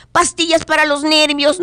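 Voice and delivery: very high pushy salesman; salesman squeak. Acted. Salesman keeps pushing wares.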